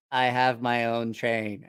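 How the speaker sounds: slow, low, awed simple voice; Paulo. Retold or imitated. Paulo holding his new toy engine like a baby, slow low awe. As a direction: imitate a big man cradling his treasure. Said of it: "he held it like it was a baby".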